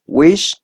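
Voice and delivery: "whisper," with the weight on WHIS, rising; stress on first syllable. Shown as a demonstration. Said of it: "If you can listen".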